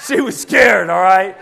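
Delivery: real laughter while teasing; laughing. Real, not acted. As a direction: chuckle through the words. Laughing about daughter's fear.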